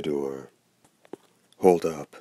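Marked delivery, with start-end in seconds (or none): 1.6-2.1 calling out. Acted. Boy calls after hunter.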